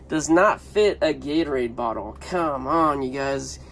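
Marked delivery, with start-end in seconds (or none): none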